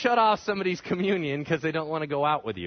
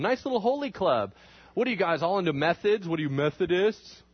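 teasing mockery, lightly acted; mocking jeer; 3 semitones higher than usual. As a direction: poke fun at the club. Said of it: "everyone made fun of 'em".

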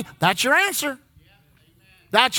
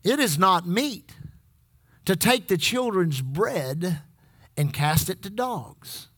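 low, slow quoted rebuff; 7 semitones lower, 5 dB quieter, slower than usual. Acted. Quoting Jesus' harsh reply.

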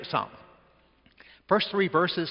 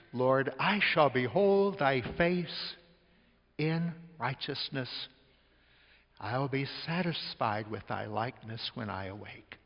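solemn slow scripture quote; slower than usual. Acted. Quoting scripture again slowly.

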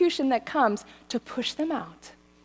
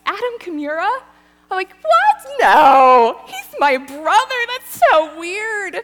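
high, loud laughing protest; incredulous laughing shriek; laughing disbelief; 9 semitones higher, 9 dB louder than usual. Retold or imitated. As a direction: squeal it out like it's absurd. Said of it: "And I laughed".

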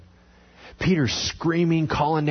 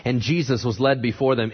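normal talking voice

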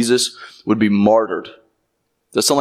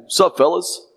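casual mock greeting; 6 semitones higher than usual. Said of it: "Jesus is not merely saying".

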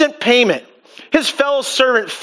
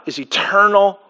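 hushed, much softer whisper; 9 semitones lower, 5 dB quieter than usual. Real, not acted. Preacher to congregation, a reverent whisper. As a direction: breathe it out as a sacred secret.

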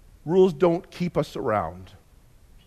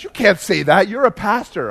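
shocked seatmate; 4 semitones higher, 4 dB louder than usual. Retold or imitated. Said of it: "He says".

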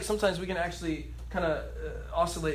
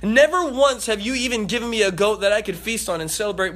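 mild angry son; 4 semitones higher, 5 dB louder than usual. Acted. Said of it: "getting in his father's face".

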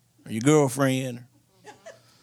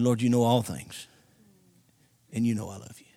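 Peter's whispered confession; 7 semitones lower, 6 dB quieter than usual. Retold or imitated.

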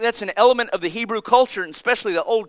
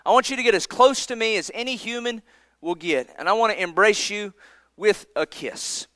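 intimate; 5 dB quieter than usual. Retold or imitated. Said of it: "he said".

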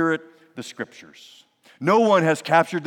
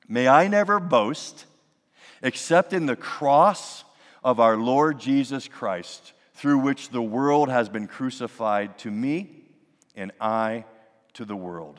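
slow, measured reading of scripture; 2 semitones lower, slower than usual. Acted. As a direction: read the verse with reverent weight. Reads Paul's scripture aloud.

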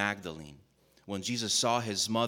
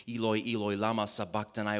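mild loud cry. Acted. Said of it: "Jesus cried with a loud voice".

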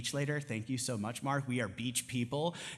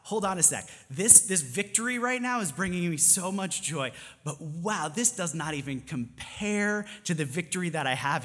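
excited. Shown as a demonstration. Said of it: "pause and be like".

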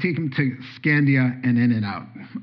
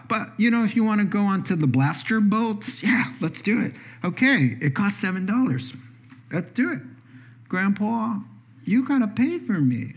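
voiced dialogue; 5 semitones higher than usual. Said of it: "child and grandpa dialogue".

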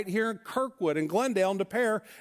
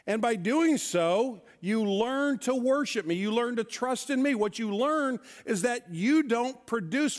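voice of God; 3 semitones higher than usual. Retold or imitated. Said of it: "God says".

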